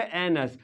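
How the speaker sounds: "एनस" with a schwa in the second syllable; pronunciation demo. Shown as a demonstration. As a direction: model "एनस" as two joined syllables, AN-us. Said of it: "क्या हो जाएगा?".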